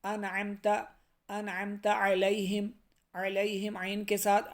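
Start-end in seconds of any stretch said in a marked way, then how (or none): none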